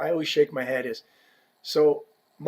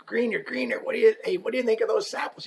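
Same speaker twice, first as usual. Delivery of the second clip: excited; 6 semitones higher, faster than usual. Retold or imitated. Asking player about stick samples.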